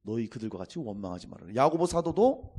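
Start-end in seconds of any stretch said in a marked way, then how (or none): 0.0-1.5 scripture quoted. Shown as a demonstration. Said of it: "오죽하면은".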